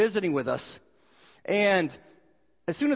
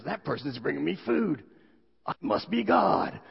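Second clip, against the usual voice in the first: smug conclusion, slowing on the last words; self-important cat; 3 semitones lower than usual. Acted. Cat concluding it is divine as it gets fed, self-important. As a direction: lean proudly on being the one worshipped. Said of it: "and the cat goes".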